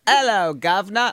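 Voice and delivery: London "'Ello, guv'nor" shown for copying; London accent. Shown as a demonstration. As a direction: model the London accent, dropped H and rising end. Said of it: "into my London accent".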